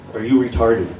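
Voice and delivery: lightly imitated thick Chinese accent on "Are you retarded?"; a hint of a Chinese accent. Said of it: "just through his thick accent".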